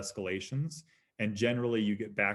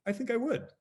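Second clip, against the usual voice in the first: reluctant admission; 13 semitones higher than usual. Retold or imitated. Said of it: "I'm like".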